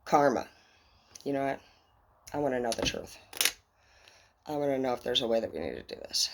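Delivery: soft, low, reverent plea; hushed solemn appeal. Acted. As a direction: speak low to karma, reverently. Addressing karma, soft and low.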